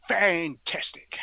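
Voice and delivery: very slow, whispery savouring; drawn-out relish. Acted. Savouring Christmas chocolate oranges, FANTASTIC drawn out in a whisper. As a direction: stretch both halves of FANTASTIC in a husky whisper.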